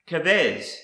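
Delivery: kavez said kuh-VEZ; Hebrew pronunciation. Shown as a demonstration. Teacher showing learners a Hebrew word, kavez pronounced kuh-VEZ. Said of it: "is pronounced".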